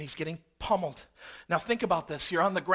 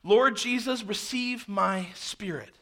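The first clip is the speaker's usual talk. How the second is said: mildly raised cry to the Lord, easing off at the end; called out; 3 semitones higher, slower than usual. Acted. Stephen calls out to the Lord as he is stoned, calling out. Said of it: "he called out".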